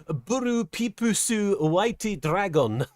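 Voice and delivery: slow, drawn-out card summon; performed catchphrase. Acted. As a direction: stretch each word theatrically, slowly. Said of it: "is what you want me to say".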